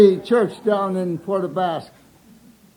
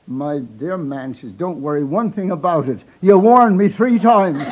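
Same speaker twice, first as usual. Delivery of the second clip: mock reassuring; 4 dB louder than usual. Minister's wife reassuring, punchline.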